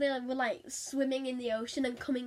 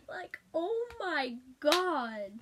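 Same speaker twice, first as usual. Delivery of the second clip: laughing disbelief; 6 semitones higher, much slower than usual. Real, not acted. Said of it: "laughing at the creepy line".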